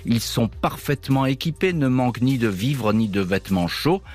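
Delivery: ominous documentary narration; horror trailer voice. Acted. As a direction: tell it like a dark mystery trailer. Dramatic narrated intro over music. (voix de bande-annonce d'horreur)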